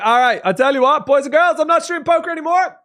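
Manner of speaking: loud, high mock proclamation; mock announcement. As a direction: proclaim it to everyone at full volume. Jokingly announces quitting poker.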